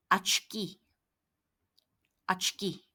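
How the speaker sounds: 아치키 with a-like first vowel; Russian word demo. Shown as a demonstration. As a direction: model 아치키 clearly. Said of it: "아처럼 발음되죠".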